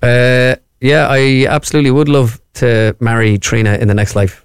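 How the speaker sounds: reluctant, deadpan mock declaration; unenthusiastic. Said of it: "Sound at least enthusiastic about it".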